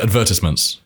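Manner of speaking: advertisements with stress on the second syllable; British pronunciation. Shown as a demonstration. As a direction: say advertisements as ad-VER-tis-ments, on request. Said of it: "Say it again".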